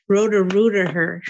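laughing through a joke. Real, not acted. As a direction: say it with a giggle. Caller jokes, laughing.

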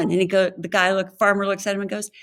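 ordinary talk, nothing marked

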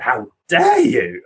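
slow, mildly indignant challenge; a touch of slow outrage; retold indignation. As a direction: re-enact a telling-off, word by word. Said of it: "I was kind of really angry".

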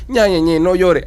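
sing-song mock hushing; mock soothing parent. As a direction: imitate a parent hushing a crying child. Imitates a parent soothing a child.

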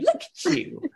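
high singsong coo; Pokemon-like name. Retold or imitated. Showing how it sounds like a Pokemon name, high imitated coo. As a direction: call it high like a cartoon creature's name. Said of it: "It's like a Pokemon name".

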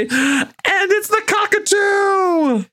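high, slow, shouted reveal of the cockatoo; excited reveal. Real, not acted. Host revealing the surprise bird, shouting with delight. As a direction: crow out the big reveal.

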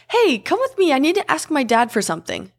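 put-on little girl voice. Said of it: "she's like".

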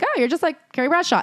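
high-pitched mock compliment; imitated gushing. Host imitates people comparing the writer to Carrie, imitated gushing.

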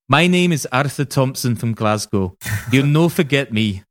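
a self-admitted bad attempt at a Glasgow accent; hammed-up Scottish gangster in a Glasgow accent, slightly high. A podcast host quotes Arthur Thompson threatening the Kray twins, in a weak Glasgow accent. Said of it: "I really wanted to do the accent".

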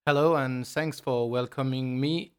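English spoken with a real French accent. Real, not acted. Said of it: "despite my terrible French accent".

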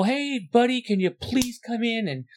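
butter him up on the phone; fake-nice message to a no-show worker; overly sweet voicemail.

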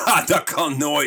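scornful slow-drawn disbelief; mocking dismissal. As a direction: mimic the doubting boss. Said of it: "Dat iemand je net vertelde".

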